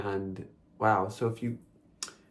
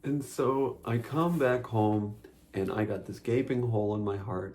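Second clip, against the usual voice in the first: dramatic storytelling. Acted. Overdone story opening, then retaken plainer.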